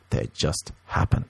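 soft unvoiced they just happen; whisper. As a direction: breathe it out low. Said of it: "whispered catchphrase".

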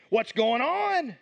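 frightened plea for what to do; scared disciples calling out to Jesus in a panic; scared followers. Retold or imitated. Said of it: "They're a little scared".

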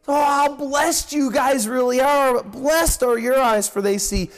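mild, marvelling excitement; lightly acted excitement, leaning on the key words; excited Jesus. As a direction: voice Christ's excitement with emphatic blessing. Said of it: "hear the excitement in the voice of Christ".

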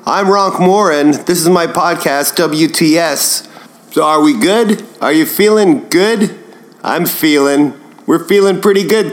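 a hint of a gruff host greeting his listeners; Marc Maron impression. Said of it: "my impression of, uh, some of my favorite podcasts".

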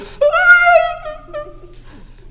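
high wailing sob; imitated wife's sob; crying wail. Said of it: "just starts crying".

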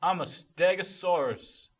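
slow, dopey dinosaur voice with a loud roar; goofy stegosaurus. Acted. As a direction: play a silly dinosaur announcing itself. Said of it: "it was a stegosaurus in the door".

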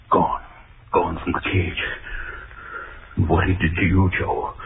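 ordinary talk

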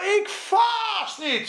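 Ik vast niet shouted high and slow, IK stretched; proud slow yell from Peter; boastful shout. Acted. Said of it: "zei hij". (hoge, trage opschepperige uitroep)

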